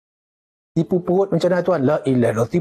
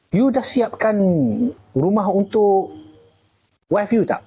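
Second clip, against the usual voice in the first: higher-pitched mock voice of the one scolding; a teasing, higher take on the scolder; imitating the scolder; 5 semitones higher, slower than usual. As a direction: put on a higher voice to play the one telling you off.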